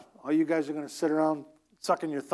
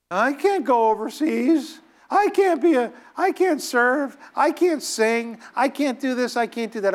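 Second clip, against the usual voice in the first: high whining "I can't" on every line; whiny excuse maker; 5 semitones higher than usual. Retold or imitated. Preacher mocks believers who say they can't, whining. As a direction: whine like a timid believer making excuses.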